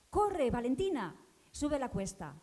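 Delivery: a loud, urgent call to run. Retold or imitated. Voices urging the girl up the slope, calling out loud. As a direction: call her on up the hill, slowly.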